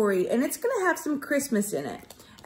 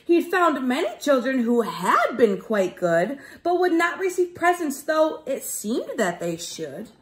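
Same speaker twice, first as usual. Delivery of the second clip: put-on lively sing-song read to children; bouncy rhyming story voice for kids; storybook narration. A narrator's reading. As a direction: read it like a rhyming picture book to a class. Teacher reads rhyming storybook.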